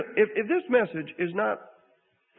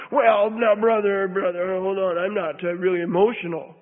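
a louder, protesting churchman brushing off emotion; mock objector; 2 semitones lower, 4 dB louder than usual. Preacher mimics a churchgoer objecting to weeping, mock protest. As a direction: play the stiff believer who won't cry.

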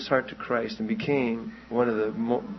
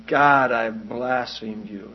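slow retold lament; 4 dB louder, much slower than usual. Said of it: "And crying out".

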